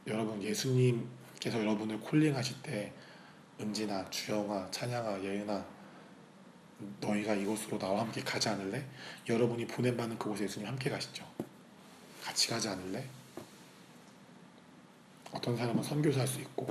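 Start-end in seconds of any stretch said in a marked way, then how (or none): 3.6-8.9 soft voice of Jesus calling each by name; name them one by one, quietly inviting; gentle calling. Acted. Acts Jesus calling names gently. 12.2-13.0 soft, tender question as Jesus; gentle invitation. Acted. Acts Jesus's quiet invitation.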